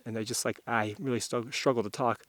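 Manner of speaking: halting words, jaw frozen stiff; stiff cold jaw. Real, not acted. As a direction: struggle to move a frozen jaw. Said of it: "I can barely move my jaw right now".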